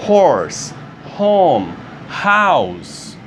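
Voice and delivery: aspirated H on Horse, Home, House; English pronunciation. Shown as a demonstration. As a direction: breathe out each H clearly. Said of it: "Esse é o som do H". (H aspirado em Horse, Home, House)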